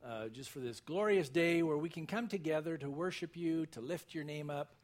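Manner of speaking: measured congregational prayer, reverent. Real, not acted. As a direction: pray aloud to the Lord for the congregation.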